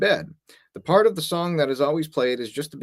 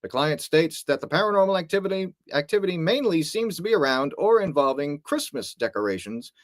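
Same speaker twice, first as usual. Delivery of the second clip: infomercial voice. Pretend. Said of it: "You sound like an infomercial".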